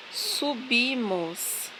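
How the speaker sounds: "subimos" drawn out slowly, syllable by syllable; slow syllable demo. Shown as a demonstration. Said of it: "você vai destacar".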